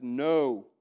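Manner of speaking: a loud, firm no; strong hard no. Shown as a demonstration. Preacher shows how to tell sin no, loud and firm. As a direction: shut it down flat. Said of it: "say a strong, hard, fast".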